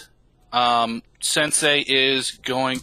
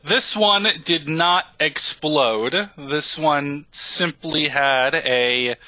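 slow, measured robot voice, stiffly formal; a polite construct defending itself, unhurried; robot character, deliberate; slower than usual. Acted.

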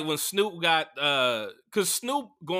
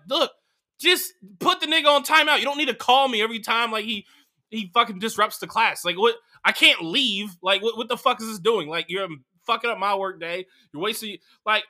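higher, louder exasperated parent; a hint of a fed-up mother scolding; annoyed mom rant; 5 semitones higher, 5 dB louder than usual. Mother complains to the principal about calls, mildly exasperated.

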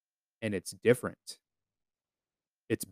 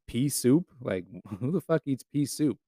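laughing mockery; 6 dB quieter than usual. Real, not acted. Mocking Dutch food, laughing.

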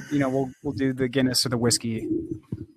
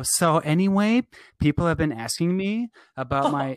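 mocking influencer. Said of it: "we hear someone go".

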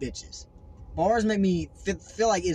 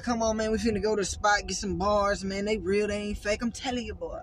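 imitating friend; 4 semitones higher than usual. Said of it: "He be like".

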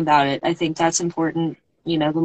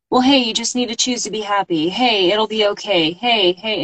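mock nagging; 4 semitones higher than usual. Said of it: "this nagging".

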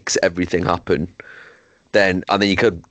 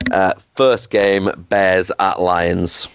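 announcer; much slower than usual. Acted. Slow announcer read of fixtures.

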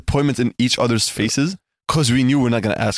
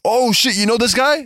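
mock amazement; 8 semitones higher than usual.

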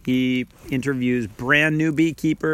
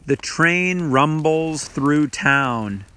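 hushed sparse haiku; slower than usual. Shown as a demonstration. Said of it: "how about this one".

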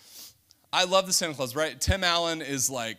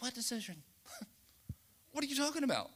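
surprised; 10 semitones higher, 6 dB quieter, much faster than usual. Retold or imitated. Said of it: "she's like".

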